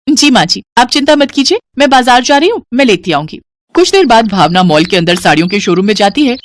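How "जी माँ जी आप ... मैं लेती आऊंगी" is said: put-on slightly higher, eager young bride; obliging daughter-in-law. Young daughter-in-law reassuring her mother-in-law, eager. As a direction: answer sweetly, eager to please.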